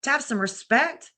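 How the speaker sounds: mother disapproving of her daughter's talk, lightly voiced; imitating scolding mom. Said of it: "She'd be like".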